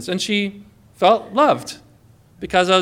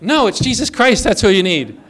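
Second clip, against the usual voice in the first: blunt insistence; 3 semitones higher, 4 dB louder than usual. Retold or imitated. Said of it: "normally I'd be like".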